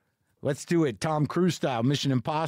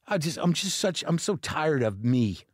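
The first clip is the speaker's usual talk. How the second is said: sighing, deflated admission; weary self-disgust. Real, not acted. Comic fed up with his own behavior, weary self-disgust. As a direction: let out a sigh and give up on yourself.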